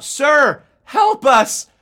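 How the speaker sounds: high, loud cry for help; urgent high-pitched plea; called out plea. Retold or imitated. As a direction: shout desperately to someone across the water. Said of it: "I called out".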